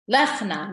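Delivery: lechna with no vowel between ch and n; lechna said right. Shown as a demonstration. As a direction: say lechna, two syllables. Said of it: "not lechena".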